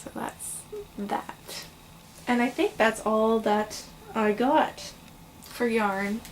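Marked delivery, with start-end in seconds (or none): 0.0-1.7 whispering. Real, not acted. After a laugh, trailing off.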